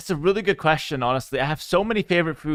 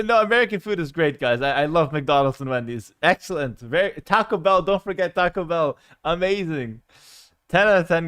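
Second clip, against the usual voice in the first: louder, higher over-the-top fake enthusiasm; mock praise; 3 semitones higher, 5 dB louder than usual. Hyping McDonald's to chat with playful sarcasm. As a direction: sell fast food as if it were fine dining.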